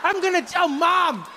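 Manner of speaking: high-pitched whining accusation; mock tearful child. Crying boy accuses father who left him, high mock wail. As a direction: wail it like a wronged little kid. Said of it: "They're both in tears".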